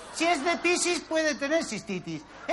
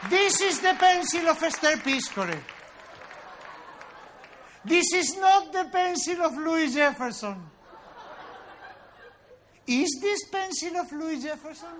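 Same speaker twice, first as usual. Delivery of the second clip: a hint of a schoolteacher. Mock English lesson recitation.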